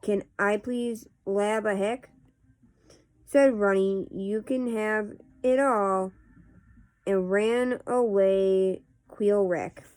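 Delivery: casual read-aloud of nonsense verse; poetry reading. Acted. Host reading Runny Babbitt poems to viewers, measured poetry reading. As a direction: read silly verse line by line, with pauses.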